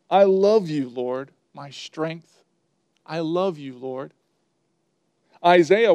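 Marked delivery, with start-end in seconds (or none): 0.1-4.1 simple devotion. Retold or imitated. Preacher quoting King David's worship, simple devotion. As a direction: say it simply, letting it sink to a hush. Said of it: "he said simply".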